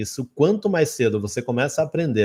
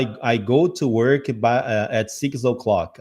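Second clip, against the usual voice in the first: halting learner speech; slower than usual. Retold or imitated. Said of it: "Ninguém fala".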